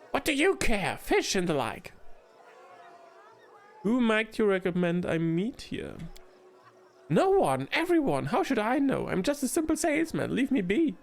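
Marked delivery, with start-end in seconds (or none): 0.1-1.9 higher, curt gnome brushing off; a testy gnome dodging the question; prickly gnome. Acted. Gnome merchant brushing off the queen, curt. 7.1-11.0 high, fast, rattled gnome shooing her off; a panicky gnome trying to get rid of her; flustered gnome. Acted. Gnome merchant shooing the queen away, rattled and high.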